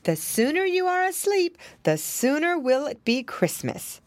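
lightly voiced pig mother, lifted pitch; mother character addressing her children; Missus Twistytail. A narrator's reading. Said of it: "said Missus Twistytail after supper".

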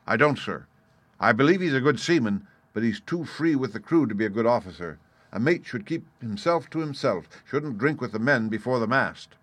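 lightly voiced captain laying down his objections; blunt captain, airing grievances. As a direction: state it firmly, punching key words.

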